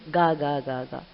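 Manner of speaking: low imitated gull cackle; seagull sound. Shown as a demonstration. Teacher explains the seagull's sound, low-key imitation. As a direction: lightly imitate a seagull's repeated call. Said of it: "this is the sound of a".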